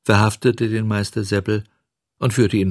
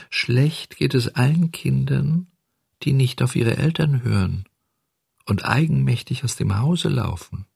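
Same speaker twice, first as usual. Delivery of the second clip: preachy little cricket; 5 semitones higher than usual. Acted. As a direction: lecture the boy like a little cricket.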